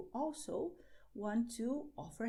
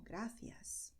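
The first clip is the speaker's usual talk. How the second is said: whispered; 8 dB quieter than usual. Shown as a demonstration. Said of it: "you say".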